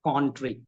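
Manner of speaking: "country" said as "cawn-tree"; Spanish-trainee pronunciation. Shown as a demonstration. Trainer showing Spanish trainees, country said as "cawn-tree". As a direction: repeat country with a rounded o. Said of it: "country becomes country".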